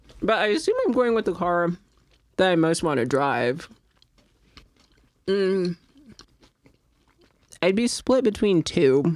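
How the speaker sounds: talking with mouth full. Chatting with others on a recording, talking with mouth full. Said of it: "sorry, I'm like chewing right into the thing".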